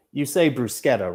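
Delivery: "bruschetta" with a hard k, broos-KET-ta; Italian pronunciation. Shown as a demonstration. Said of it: "It's not bruschetta, it's bruschetta".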